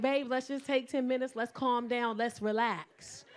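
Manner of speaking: lightly imitated calming partner, slowing at the end; calm boyfriend. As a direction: talk her down evenly. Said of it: "'Cause he's so calm".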